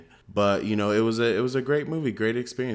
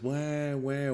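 higher, softer mock wailing; imitated child crying; 4 semitones higher, 4 dB quieter than usual. Dad imitating his son crying after trouble, mock wailing. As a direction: mimic a whining child's wah. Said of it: "he'll be crying".

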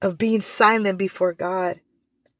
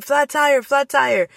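higher sing-song call to the class; classroom call; 4 semitones higher than usual. Shown as a demonstration. Teacher calling out to a noisy room, sing-song. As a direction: call the kids to attention. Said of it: "quiets the room down".

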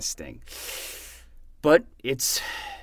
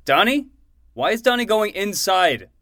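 loud, high, desperate calling out; frantic shouting; 10 semitones higher, 10 dB louder than usual. Acted. Uncle shouts after Donnie entering the hideout, frantic and loud. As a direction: call after him in alarm.

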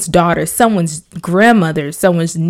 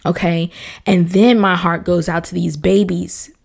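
usual speaking voice

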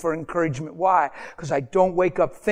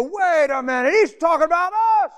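high, rushed mock indignation; outraged crowd; 12 semitones higher, 4 dB louder than usual. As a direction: act listeners realizing they are the target. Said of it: "And they go".

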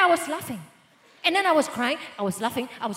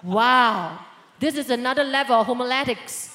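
impressed wow; 2 semitones lower, 6 dB louder than usual. Retold or imitated. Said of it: "I was like".

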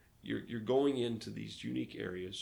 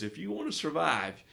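mock grave warning; 6 semitones higher, 6 dB louder than usual. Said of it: "He goes".

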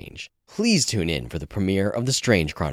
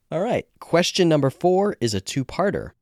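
bright, lifted host voice announcing the question; upbeat host intro; 11 semitones higher, 6 dB louder than usual. Acted. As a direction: pump up the next question, higher and louder. Host launching next question.

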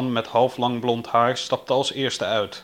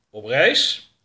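louder, doubting echo; challenging repeat, rising on "reis"; sceptical interrogator; 2 semitones higher, 5 dB louder than usual. Acted. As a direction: throw it back as a loud question. Older man queries the answer.

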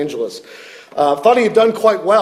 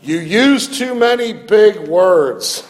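mock exclamation; 4 semitones higher, 4 dB louder, slower than usual.

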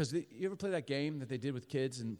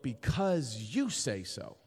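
slow phrase with "you" drawn out; stress on YOU; much slower than usual. Shown as a demonstration. Addict resolving to obey God, stress on "you". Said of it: "Emphasis on you".

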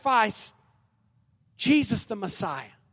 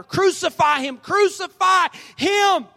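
high, loud roar building to a long drawn-out last word; mob roaring louder; 10 semitones higher, 7 dB louder, slower than usual. Acted. Mob roars back at Pilate even louder, building shout. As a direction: roar it out, stretching the final "him". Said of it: "the crowd roared even louder".

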